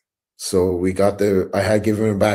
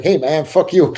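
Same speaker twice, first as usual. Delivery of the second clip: higher and louder, laughing through it; laughing comeback; 7 semitones higher, 8 dB louder than usual. Retold or imitated. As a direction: toss it back as a joke while laughing. Friend's joking comeback, laughing.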